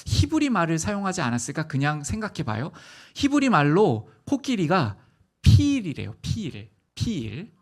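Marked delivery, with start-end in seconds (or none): 5.4-7.5 피일 with a long drawn ee; Hebrew word for elephant. Shown as a demonstration. Preacher teaching the children the Hebrew word, slow and drawn out. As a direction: sound out 피일 slowly, ee stretched. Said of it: "피일이라고 발음된대요".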